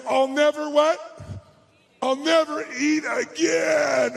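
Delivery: slow, drawn-out I'll never; groaning like you're stuffed to the brim; a hammed-up food-coma vow; mock overstuffed groan. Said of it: "and you say".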